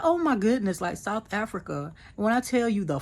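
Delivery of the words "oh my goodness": high, louder burst of excitement; excited. Real, not acted. She tells viewers about the mall, high and excited. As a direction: let the excitement spill over.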